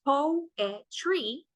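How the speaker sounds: "poetry" broken into three beats, po-e-try; syllable by syllable. Shown as a demonstration. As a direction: sound out "poetry" one syllable at a time. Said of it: "Poetry has three syllables".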